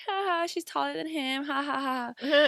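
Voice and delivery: a hint of sing-song teasing; mock jeering laugh, lightly voiced; mocking classmates. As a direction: lightly mimic the kids jeering. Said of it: "make fun of us".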